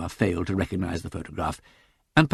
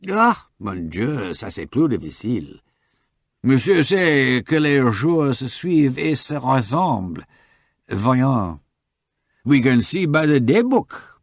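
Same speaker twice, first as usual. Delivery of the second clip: put-on higher, quick French-accented young lady; eager French shop girl; 5 semitones higher, 4 dB louder, slower than usual. Shop girl recognizing the photo for the detective, eager French accent. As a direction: pipe up brightly, sure of herself, French accent.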